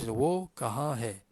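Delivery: "Wo kaha hai" slow, stripped of all melody; no intonation. Shown as a demonstration. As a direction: say "Wo kaha hai" directly, without any lilt. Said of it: "Buang semua. Intonasi Melayu pun keluarkan". ("Wo kaha hai" tanpa intonasi, cakap direct saja)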